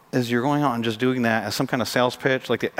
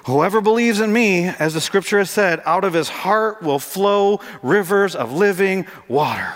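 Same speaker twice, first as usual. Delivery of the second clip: raised, drawn-out scriptural proclamation; crying out; 4 semitones higher, slower than usual. Acted. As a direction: proclaim it higher, stretching the key words. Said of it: "Jesus stood up and cried out".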